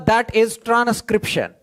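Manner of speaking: slow, spelled-out dictation pace. Shown as a demonstration. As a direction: give the definition word by word for notes. Topic announced slowly.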